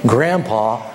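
low-pitched, soothing host; gentle explanation. Acted. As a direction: break it gently, pitch dropped. Host soothes guest, explains Grandpa's illness.

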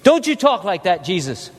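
mildly acted rebuke; lightly played telling-off; rebuking. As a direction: voice a scolding, kept fairly contained. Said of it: "began to rebuke him".

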